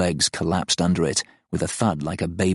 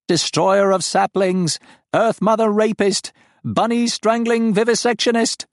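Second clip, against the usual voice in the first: outraged alien voice, much higher and louder; accusing creature; 14 semitones higher, 4 dB louder than usual. Acted. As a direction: hurl the insults like a wounded beast. The farm accuses Joe.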